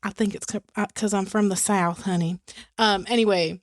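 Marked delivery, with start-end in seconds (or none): 1.0-2.4 playful Southern Belle lilt; Southern accent. Pretend. Co-host explaining her roots in a Southern accent. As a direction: lay on a honeyed Southern accent. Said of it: "your Southern accent's pretty good".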